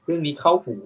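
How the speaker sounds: suddenly hooked by the topic; mock perked-up interest; perking up. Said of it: "อืม เรื่องนี้เข้าหู".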